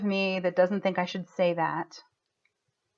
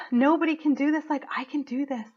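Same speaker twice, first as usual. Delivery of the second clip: choked up; 5 semitones higher than usual. Real, not acted. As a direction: push the words through rising tears. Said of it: "I get choked up".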